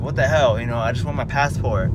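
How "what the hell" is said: mad. Retold or imitated. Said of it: "I was all, like, mad".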